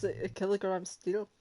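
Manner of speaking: "kilogram" said the Scottish way, like Shrek; Scottish sounding kilogram. Shown as a demonstration. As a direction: coach the word "kilogram" in a Shrek voice. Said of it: "think of Shrek, but also think of".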